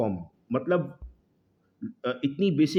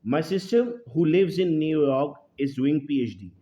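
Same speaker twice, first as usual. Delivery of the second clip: slow example sentence, run through in one go; slow read-out, no punctuation pauses; read without commas; much slower than usual. Shown as a demonstration. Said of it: "यहाँ पर punctuation mistake है".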